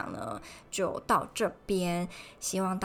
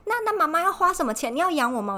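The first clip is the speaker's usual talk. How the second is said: mom retorting; 10 semitones higher, 8 dB louder than usual. Retold or imitated. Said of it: "她就".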